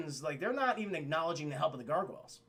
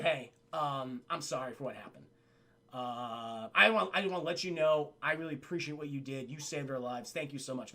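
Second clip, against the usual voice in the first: hushed, sincere thanks in character; apologetic; 5 semitones lower than usual. Acted. Captain apologizing to the gargoyle leader, gently contrite. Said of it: "he goes out to apologize".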